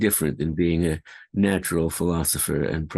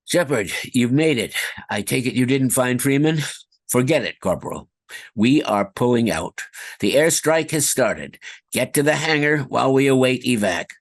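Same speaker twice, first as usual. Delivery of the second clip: commanding officer; 4 semitones higher than usual. Acted. Soldier game lines.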